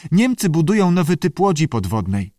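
high creature voice, a touch of concern; worried salamander. A narrator's reading. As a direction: report it as a mildly troubled salamander. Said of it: "powiedział Andy zatroskany". (lekko zatroskany, wysoki głos salamandry)

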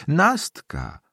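high-pitched call to the next room; old woman calling for her maid. A narrator's reading. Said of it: "krzyknęła głośniej w kierunku sionki".

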